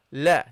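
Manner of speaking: "la" said thin and light; light front "la". Shown as a demonstration. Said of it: "You pronounce it lightly".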